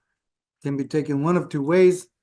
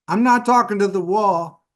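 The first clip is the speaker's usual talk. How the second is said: scolding mother; 4 semitones higher, 4 dB louder than usual. Retold or imitated. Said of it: "things my mom used to say, things like".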